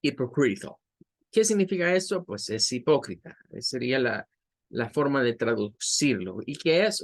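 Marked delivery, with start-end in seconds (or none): 0.0-0.8 hypocritical said cleanly; English pronunciation. Shown as a demonstration. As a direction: model the word hypocritical. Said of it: "pocas palabras".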